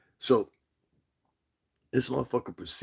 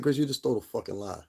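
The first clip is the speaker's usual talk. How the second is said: re-enacted call-out, pitch raised; blunt retold accusation; 4 semitones higher than usual. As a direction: confront him bluntly, as if replaying it. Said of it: "I said it just like that".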